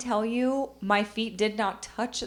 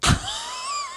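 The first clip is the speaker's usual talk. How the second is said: high-pitched astonished squeal. Retold or imitated. Acts out astonished reaction.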